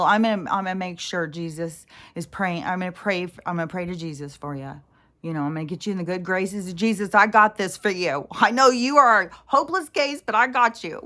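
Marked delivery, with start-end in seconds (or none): 5.4-11.0 high, loud, smug mock of a pious commenter; mock preachy commenter. Mocking religious commenters who promise to pray for her, smug and loud. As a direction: parody a condescending believer.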